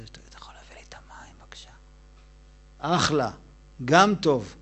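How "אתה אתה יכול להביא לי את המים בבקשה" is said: weak breathless whisper, barely any voice; sick man's whisper. Retold or imitated. A sick man asks for water, whispering weakly. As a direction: whisper like a bedridden patient begging for water. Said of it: "כמו אחד שהוא חולה כזה".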